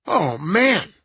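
lightly high, relieved; a hint of nasal relief. A narrator's reading. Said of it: "High-pitched, nasal voice".

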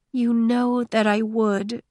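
hushed, slow, breaking on last word. A narrator's reading. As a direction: let the voice crack at the end. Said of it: "her hushed voice breaking on the last word".

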